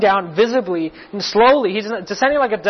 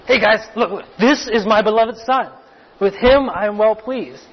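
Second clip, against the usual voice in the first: lively announcement to a group; declaration to everyone; 3 semitones higher than usual. Acted. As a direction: call everyone's attention to him, a bit raised. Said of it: "a declaration to everyone else".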